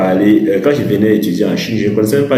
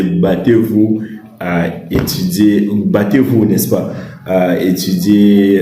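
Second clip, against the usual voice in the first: drawn-out "battez-vous à étudier", each word spaced; slow and insistent, drive it home; slow emphatic urging; slower than usual. Shown as a demonstration. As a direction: stretch "battez-vous" like a firm plea.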